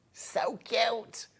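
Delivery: breathy whispered coo. Real, not acted. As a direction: whisper it, cooing over something sweet. Cooing over the owl.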